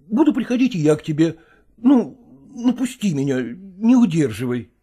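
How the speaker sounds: ordinary delivery, nothing marked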